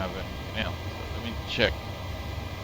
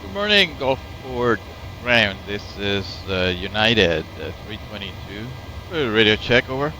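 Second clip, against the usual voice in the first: radio static bursts; slower than usual. Real, not acted. Radio call to ground control.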